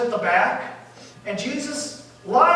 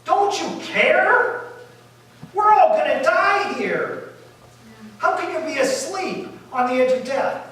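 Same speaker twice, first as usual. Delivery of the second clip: mock panicked yell; 5 semitones higher than usual. Disciples shouting at sleeping Jesus, mock panicked yell. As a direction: act out frightened disciples crying out. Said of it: "they start yelling at him".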